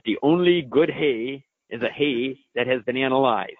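imitated German researcher, slightly playful accent; mock German-accented pronouncement. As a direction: quote it in a put-on German accent. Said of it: "I like my German accent there".

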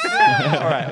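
loud joyful shout; excited shout. Real, not acted. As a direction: shout it out with glee. Excited reply, shout heard.

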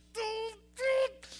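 high-pitched drawn-out "doo, doo"; imitated coaster noise. Preacher mimics the roller coaster pausing at its peak, imitated noise. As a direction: sound out the hang at the top, high.

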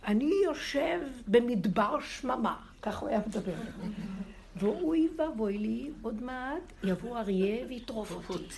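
hammed-up lament of doom; imitating rabbi's lament. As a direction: moan like a man alone in the desert. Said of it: "והיה צועק".

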